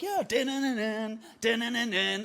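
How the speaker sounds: breezy confident patter. Acted. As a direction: rattle it off with easy confidence. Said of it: "I'm quite confident. I feel good".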